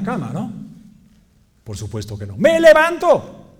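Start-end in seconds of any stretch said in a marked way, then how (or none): 2.4-3.5 high, loud, drawn-out declaration; bursting out, much louder and higher; rallying shout. Acted. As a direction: shout it with sudden resolve. Rallying himself out of bed.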